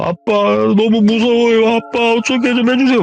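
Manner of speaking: put-on high, slow frightened child pleading; boy begging his father for help; scared child voice. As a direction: whimper like a terrified little boy. Terrified son pleads.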